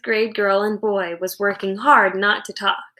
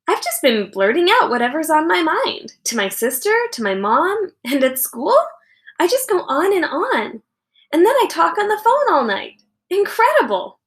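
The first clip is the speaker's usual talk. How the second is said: higher, building exasperated confession; girl amazed at her own chatter; self-mocking girl; 6 semitones higher than usual. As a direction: marvel at your own chatter. Girl scolding herself.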